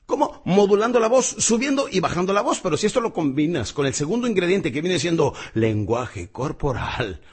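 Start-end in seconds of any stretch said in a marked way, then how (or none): 0.1-2.6 emphatic. Shown as a demonstration. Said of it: "Estimulamos sus deseos".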